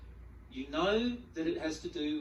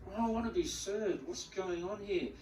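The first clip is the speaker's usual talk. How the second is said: mock frustration; 5 semitones higher than usual. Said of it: "You can feel this".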